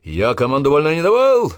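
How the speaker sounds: high, loud angry bark; yell. Acted. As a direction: snap at the slack line. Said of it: "заорал".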